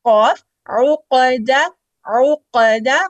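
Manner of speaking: उकदा with a loud bouncing qaf. Shown as a demonstration. Teacher showing students the qalqalah on qaf. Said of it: "उसको आपने bounce कर लिया".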